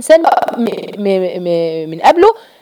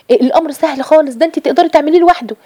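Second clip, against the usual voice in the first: mock tempting devil; 6 semitones higher than usual. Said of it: "ويقول لك إيه؟".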